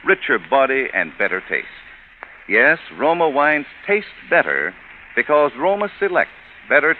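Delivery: upbeat, polished sponsor pitch; radio ad read. Acted. Radio host pitching Roma Port to the listeners, in a polished ad read. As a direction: sell the port like a warm old-time radio announcer. Host turns to wine commercial.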